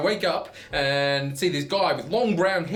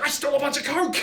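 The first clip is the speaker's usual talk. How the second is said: giggling confession; 11 semitones higher, faster than usual. Retold or imitated. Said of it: "And he's like".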